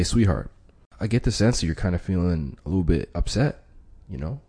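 soft, gentle reassurance; calm the partner down softly; soothing labeling. Shown as a demonstration. Negotiator soothes an upset partner, softly. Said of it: "that's your labeling it".

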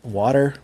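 "water" with an open "wah" first vowel; "water" without the Philly vowel; careful standard water. Shown as a demonstration. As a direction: say "water" clearly, as "wah-ter". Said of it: "when I say the word water".

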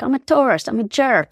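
high, loud goofy voice of a clueless tourist proclaiming itself; mock jerk tourist. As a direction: ham it up like a cartoon tourist announcing itself. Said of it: "it's like".

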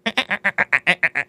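dolphin squeak. Pretend. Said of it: "do a dolphin noise".

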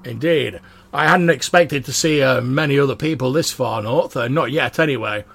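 loud, booming dwarf chat; bellowing dwarf. Acted. Dwarf talking to the watch as others sleep, bellowing. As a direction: keep booming at full volume. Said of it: "dwarf's bellowing".

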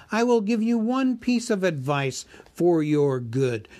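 a huge dragon toying with the thief; dragon Smaug. Acted. Narrator voices Smaug.

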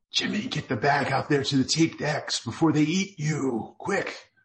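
urgent, high pleading voice. Acted. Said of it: "the unseen voice pleaded with him".

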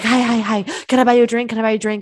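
pushy, needy rush of an offer; desperate eagerness. Retold or imitated. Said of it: "giving off this desperate energy".

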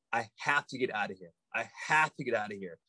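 low, quick, quiet insistence; determined. Retold or imitated. Tripping friend resolved to leave, mildly voiced determination. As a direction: say it low and fast, set on leaving. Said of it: "He was so determined. He wasn't screaming".

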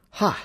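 short, high "ha" of a laugh; read-out laugh in one high burst; single voiced laugh. A narrator's reading. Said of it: "she laughs".

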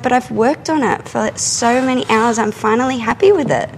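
high-pitched protest to the teacher; arguing back. Retold or imitated. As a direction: plead your case, pitched well up. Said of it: "stood there and argued with her".

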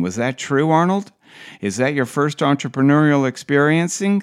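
lightly mocked long-winded interviewer; Tim. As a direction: ramble on through a question, lifting at the end. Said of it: "he continues".

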